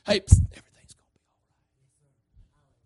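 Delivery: secretive reassuring whisper; hushed, breath-only comfort; still small voice. Acted. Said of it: "still, small voice and says".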